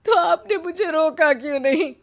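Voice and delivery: tearful question through sobs; wife crying, asking husband why he did not stop her. Acted. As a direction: cry as you ask. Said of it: "वो बैठकर रोने लगती है".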